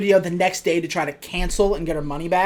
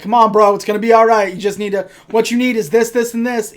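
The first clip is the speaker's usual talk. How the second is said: gym salesman pitch; 3 semitones higher, 5 dB louder, faster than usual. Retold or imitated. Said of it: "that's what he reminded me of".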